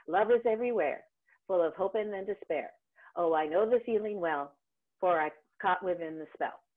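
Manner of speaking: evenly patterned, sing-song phrasing, each line falling alike; singsong recitation, line by line; sing-songy pattern. Shown as a demonstration. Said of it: "would be a really, uh, sing-songy pattern way".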